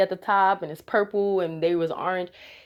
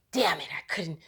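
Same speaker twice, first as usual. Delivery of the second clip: annoyed demon. Retold or imitated. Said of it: "with the most annoyed attitude".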